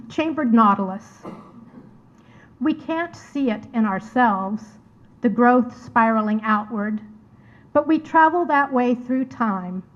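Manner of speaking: measured poetry reading, pausing after each phrase; poem recitation. Acted. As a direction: read it line by line, letting each image stand. Reads her poem aloud.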